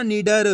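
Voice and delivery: "निडर" deliberate, syllable by syllable; blended word demo. Shown as a demonstration. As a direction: model "निडर" with final "र" fully sounded. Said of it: "इसी तरीके से पढ़ना".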